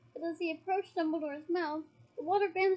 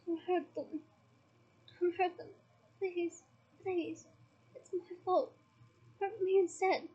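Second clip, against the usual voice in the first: moaning plea; 2 semitones higher than usual. Acted. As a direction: plead weakly through the pain. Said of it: "as he moaned".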